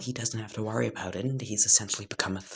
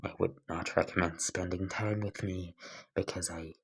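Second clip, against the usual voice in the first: even, restrained rejection; cold, deadpan character; 4 dB quieter than usual. Acted. Izuku rejecting Bakugo's friendship, coldly deadpan. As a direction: deliver the hatred evenly, without heat.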